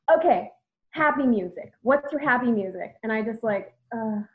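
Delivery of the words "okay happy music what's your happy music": upbeat coaxing. Retold or imitated. Heather in the car.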